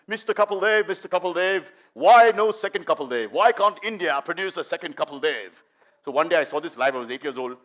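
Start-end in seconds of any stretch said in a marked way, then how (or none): 0.1-5.6 lightly mimicked English foreign-journalist accent; press-conference question in an imitated English accent. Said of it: "English, Australian journalist would ask him".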